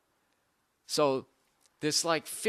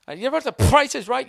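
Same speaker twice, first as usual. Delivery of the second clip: higher, louder announcer call; game show host voice; 9 semitones higher, 6 dB louder, faster than usual. Shown as a demonstration. Host calling to the studio audience, big announcer voice. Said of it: "Did I just spit on my own microphone".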